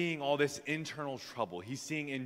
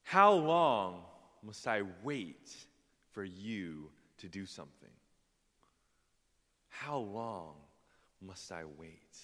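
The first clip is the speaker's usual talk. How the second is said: Habakkuk complaining; 4 semitones lower, slower than usual. Acted. Preacher as Habakkuk questioning God, slow weary complaint. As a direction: draw out the complaint, with long pauses. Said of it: "he's complaining to God about that".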